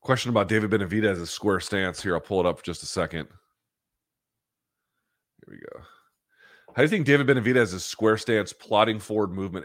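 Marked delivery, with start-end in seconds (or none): 0.0-3.3 just sprayed nose, slightly stuffy; after nasal spray. Real, not acted. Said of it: "I'm gonna put this nasal spray in my nose".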